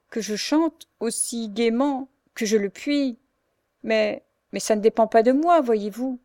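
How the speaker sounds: tearful. Acted. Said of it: "au milieu de ses larmes".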